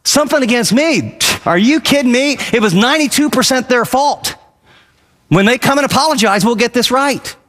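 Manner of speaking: lightly acted huffy protest; indignant inner voice. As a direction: play the offended one who thinks it's all their fault. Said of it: "and in your mind going".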